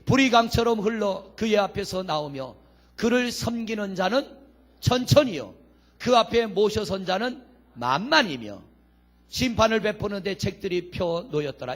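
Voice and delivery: measured public Bible recitation; formal pulpit reading; scripture reading. Acted. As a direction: read the verse out firmly to the congregation. Reads scripture aloud to congregation.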